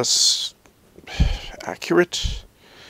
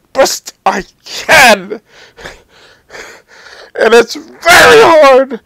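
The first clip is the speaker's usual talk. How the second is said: crying; 3 semitones higher, 3 dB louder, slower than usual. Real, not acted. Breaking down while ranting.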